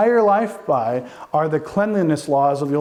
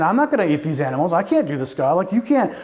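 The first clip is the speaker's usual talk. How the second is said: Peter protesting; 3 semitones higher, faster than usual. Acted. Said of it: "now Peter's saying".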